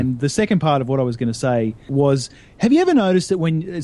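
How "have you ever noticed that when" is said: a light Jerry Seinfeld opener, voice raised; Seinfeld impression. Setting up a joke for the hosts, a light Seinfeld-style opener. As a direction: start it like a Seinfeld bit. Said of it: "this was a Jerry Seinfeld beginning joke".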